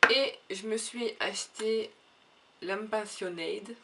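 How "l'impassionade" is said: "l'Impassionade" said slowly with a mock posh English accent; self-mocking accent. Shown as a demonstration. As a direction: drawl out "l'Impassionade" as if very chic. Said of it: "avec mon accent divin". ("l'Impassionade" prononcé lentement avec un faux accent anglais chic)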